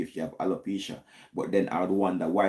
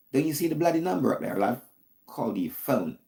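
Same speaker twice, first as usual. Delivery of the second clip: mock British accent; 4 semitones higher than usual. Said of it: "I'm trying to talk British language".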